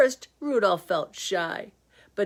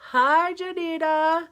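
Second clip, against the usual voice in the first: silly greeting voice; 8 semitones higher, 4 dB louder, slower than usual. Pretend. Playful greeting in put-on voice.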